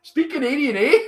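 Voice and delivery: high-pitched mock Canadian; hammed-up Canadian with a tagged-on eh. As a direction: put on a teasing Canadian accent, up high. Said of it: "heard me talk Canadian".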